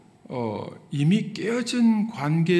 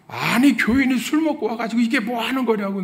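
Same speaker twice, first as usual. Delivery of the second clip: mock scolding; 6 semitones higher, 5 dB louder than usual. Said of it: "이렇게 하지 않았습니다".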